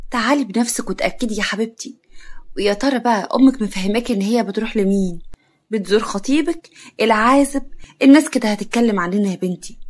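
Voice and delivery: slyly insinuating aunt. Acted. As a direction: needle her with a touch of malice. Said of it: "خالتها بخبث".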